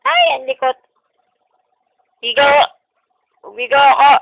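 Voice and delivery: loud, high excited exclamation. Real, not acted. Baby squirming, parent exclaims loudly.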